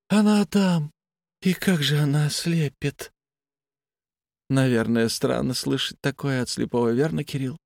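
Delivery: a detached, unsettling patient; blind patient voice. Acted.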